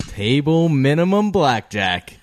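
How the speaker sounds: high, loud, drawn-out table yell; yelled cheer. Shown as a demonstration. Friend demonstrating the table's blackjack cheer, yelled. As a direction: holler it slowly across a casino. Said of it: "that's what we would yell".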